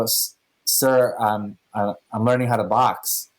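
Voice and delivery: a hint of a timid, hesitant mumble; mildly sheepish lie to the boss. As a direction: lightly play it nervous and caught out. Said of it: "So very sheepishly".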